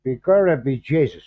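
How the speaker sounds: first tentative try at a stage Irish accent, at normal pitch and level; testing out a stock Irish brogue, half-hearted; mild mock Irish accent, feeling it out. Shown as a demonstration. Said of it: "I'm trying to get the accent".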